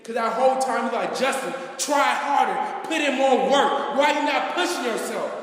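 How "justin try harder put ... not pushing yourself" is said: a coach demanding more effort; mock coach yelling; retold coach yell. Coach pushing him, retold.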